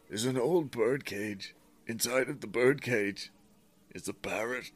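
lightly voiced woman's last message; man doing a woman's voice. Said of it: "this is still her".

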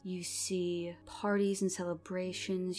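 dramatic scene narration. Acted. GM narrating vision.

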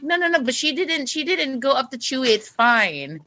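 high, hurried-sounding denial; retold high-pitched placating; frantic reassurance. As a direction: re-enact anxiously talking someone down.

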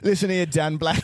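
lightly British wrestler promo voice; a hint of stately British wrestler; William Regal voice. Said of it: "it's pretty good".

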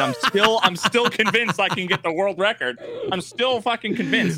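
high laughing admission. Real, not acted. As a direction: laugh through it at yourself. Laughing at own obsession.

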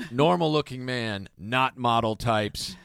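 slow, deliberate listing; slow reading. Retold or imitated. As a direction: read it out slowly. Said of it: "would typically say something like".

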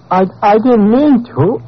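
high, halting plea; frightened apology. Acted. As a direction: stammer a pitiful apology. Frightened suspect apologising under questioning.

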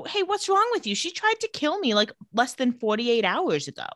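squeaky high indignant Elena; Elena's pitch shoots way up in outrage; mock Elena. High outraged Elena snapping at Damon. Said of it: "And she says".

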